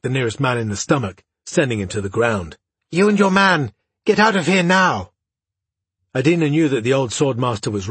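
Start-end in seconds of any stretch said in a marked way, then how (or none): 2.9-5.1 high, loud hoarse shout. A narrator's reading. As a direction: shout the order mid-fight. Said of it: "he shouted, his voice hoarse".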